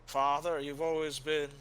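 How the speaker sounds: a believer voicing shaken faith; troubled warrior. Helwyn telling Father his faith is shaken, grave and earnest.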